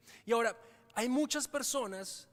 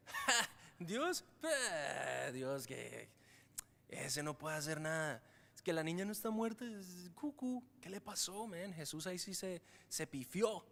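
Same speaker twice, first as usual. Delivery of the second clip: mocking scoffer; 3 dB quieter, slower than usual. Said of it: "te empiezan a decir".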